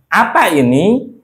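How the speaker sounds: "Apa ini" slow, high, rising at the end; question intonation. Shown as a demonstration. Teacher translates the question for students, question intonation on "Apa ini". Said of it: "Pakai intonasi pertanyaan".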